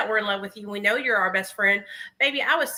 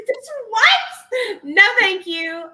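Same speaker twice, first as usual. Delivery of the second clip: laughing; 10 semitones higher, 6 dB louder, much slower than usual. Real, not acted. Laughing at the AI clone idea.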